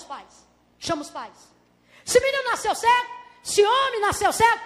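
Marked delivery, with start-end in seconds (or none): 2.0-4.6 lightly acted interrogator, raised pitch; pointed, higher-pitched questioning; interrogating. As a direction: question them like a suspicious official. Pharisees questioning the parents.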